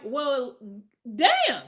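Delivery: high-pitched mock wail of a parent; hammed-up appalled parent; dismayed parent. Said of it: "If I was a parent, I'd be like".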